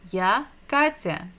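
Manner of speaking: я Катя with stress on the first syllable of Катя; model pronunciation. Shown as a demonstration. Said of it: "К, К, Катя".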